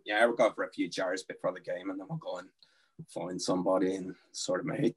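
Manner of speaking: low-key Northern Irish threat; casually menacing Northern Irish lad; Northern Irish accent. Shown as a demonstration. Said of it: "you get the impression".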